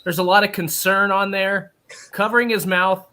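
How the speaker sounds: mock sportscaster call; play-by-play. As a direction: narrate it live like a broadcast. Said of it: "Play by play, live".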